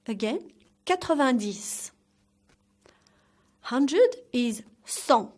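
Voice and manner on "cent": "cent" as a nasal san, no t; silent t. Shown as a demonstration. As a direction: say "cent" ending on the nasal vowel. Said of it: "The T is silent".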